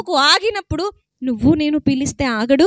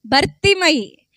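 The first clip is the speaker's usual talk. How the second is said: slow, falling, each syllable clear; slow name answer; slower than usual. Shown as a demonstration. Preacher slowly repeating the name to the crowd. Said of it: "ఏం పేరండి?".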